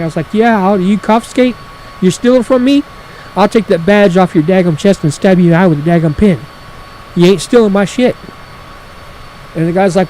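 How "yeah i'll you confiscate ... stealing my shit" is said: louder, indignant retelling; half-played angry shout at him; heated comeback. To the ranger taking his poles, indignant and loud. Arguing with the ranger over confiscation.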